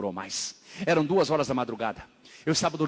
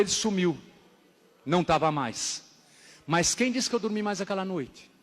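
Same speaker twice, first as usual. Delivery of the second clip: ordinary talk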